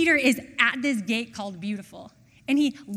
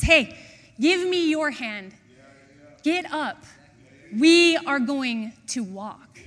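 higher, emphatic call to get up; urgent command; 3 semitones higher, 6 dB louder than usual. Acted. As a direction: call out a bold, rousing command. Peter calls to the lame man.

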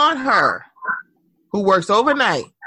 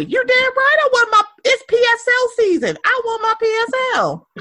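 higher, fast, eager cry for a latte; excited insistence; 13 semitones higher than usual. Real, not acted. Telling ladies to order an expensive latte, excited. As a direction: demand it with glee.

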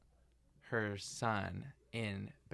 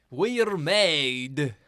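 loud, Nordic-tinged line delivery; Norwegian accent; 4 semitones higher, 13 dB louder than usual. Shown as a demonstration. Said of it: "can you say a line from Muriel's wedding in Tony's Norwegian accent".

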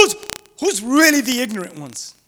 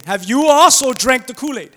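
louder scoffing jab; mocking taunt; 6 dB louder than usual. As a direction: sneer at the gullible guards. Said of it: "the Pharisees began to mock".

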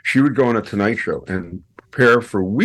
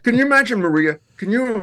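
higher amazed plea; wide-eyed disbelief; raised voice imagining the wife's shock; incredulous; 10 semitones higher, faster than usual. Real, not acted. Incredulous aside to host.

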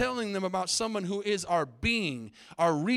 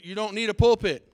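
loud preacher's call; 8 dB louder than usual. Real, not acted. Congregation repeats a preacher's prompt.

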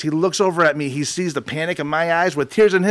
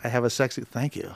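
low sultry voice; 5 semitones lower, 9 dB quieter than usual. Pretend.

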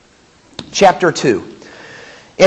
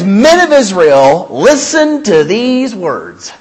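louder and slow, "Men of Israel"; proclaiming Peter's call; 4 dB louder, much slower than usual. Acted. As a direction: call out like an apostle to a crowd. Reading Peter's sermon aloud.

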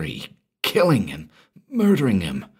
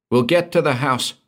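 snapped order; 7 semitones higher than usual. A narrator's reading. Merton ordering the guards onto the car, snapped. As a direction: bark the order fast. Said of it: "he snapped".

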